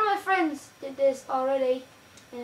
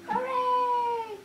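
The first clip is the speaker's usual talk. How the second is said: mock cheer; 10 semitones higher than usual. Ends the mock song.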